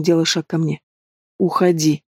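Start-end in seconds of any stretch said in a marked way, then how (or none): 1.4-2.0 лёгкая хрипотца, сдержанно; тихо выдавить сквозь хрип; хрипло. A narrator's reading. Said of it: "хрипло ответила я". (хриплый ответ незваному гостю)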